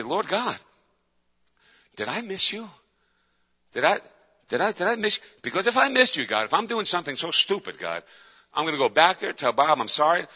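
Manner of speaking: high-pitched, halting plea to God; retold tearful prayer. Upset man asking God if he missed him, tearful pleading. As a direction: plead upward, stumbling over the question. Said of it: "and I start tearing".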